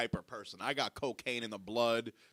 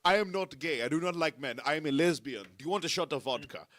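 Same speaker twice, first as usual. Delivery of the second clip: put-on voice, louder at the start; man voice; 3 semitones higher, 6 dB louder than usual. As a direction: imitate a regular's stilted declaration. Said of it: "in his man voice he was like".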